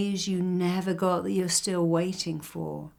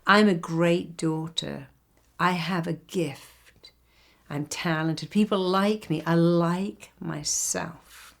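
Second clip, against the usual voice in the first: affirmation; slower than usual. Shown as a demonstration. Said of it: "imagine if you could say that".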